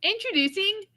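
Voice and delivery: slow, high announcer intro; game show host. Pretend. Game show style guest introduction.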